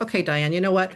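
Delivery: calm self-talk. Retold or imitated.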